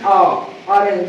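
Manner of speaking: stretched अ before ऑरेंज; vowel demo. Shown as a demonstration. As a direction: hold the अ sound, then ऑरेंज. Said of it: "अ sound आ रहा था". (अ को खींचकर ऑरेंज)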